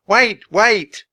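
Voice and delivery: loud high urgent Wait!; yelling. A narrator's reading. Teddy bursting in yelling at the wizard. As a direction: shout to halt the spell.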